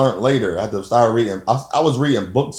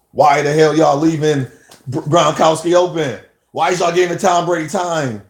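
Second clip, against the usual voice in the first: aggravated yelling at the TV; 4 semitones higher than usual. Retold or imitated. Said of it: "It, it make me just get aggravated".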